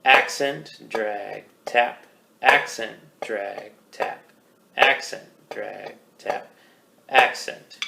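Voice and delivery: slow rhythmic chant of stroke names; calling the strokes. Shown as a demonstration. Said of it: "small tap stroke so we can get ready for an accent".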